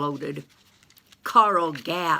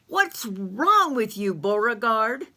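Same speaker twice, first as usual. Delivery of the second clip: Bessie May's voice; 5 semitones higher, 4 dB louder than usual. Acted. Bessie May calling down.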